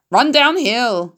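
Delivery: slow, lightly voiced cow; lowing cow. A narrator's reading. Cows advising Wilbur, slow mild cow voice. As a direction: drawl it gently like a cow. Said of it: "suggested the cows".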